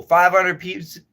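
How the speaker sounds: "Five hundred piece-" said through a mouthful; "Five hundred piece-" mumbled round food; mouth full. Real, not acted. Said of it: "Don't talk with your mouth full".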